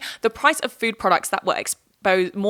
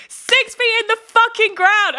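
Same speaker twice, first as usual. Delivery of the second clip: much higher, louder, slower angry shout; annoyed rant; 13 semitones higher, 6 dB louder than usual. Real, not acted. Vlogger ranting about dead Leave voters, angry shout. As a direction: let the frustration explode on every word. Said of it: "I'm getting annoyed".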